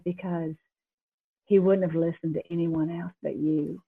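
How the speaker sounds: soft, gentle retold answer; quietly reassure, no anger at all; loving, not mad. God explaining to the angry driver, gently loving. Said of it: "he was so loving. He wasn't mad".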